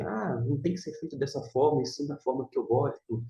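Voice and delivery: fast, pernickety mock objection; fussy critic. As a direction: play the pedantic critic. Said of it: "para dizer assim".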